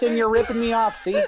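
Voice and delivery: put-on a light old-time gangster accent, almost Irish; lightly voiced mobster accent, rising on good money. Neighbourhood rep scolding someone, light gangster accent. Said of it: "that might be your best accent".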